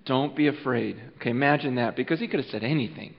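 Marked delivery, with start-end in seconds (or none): 0.0-1.0 gentle reassurance. Acted. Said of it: "if those were his first words".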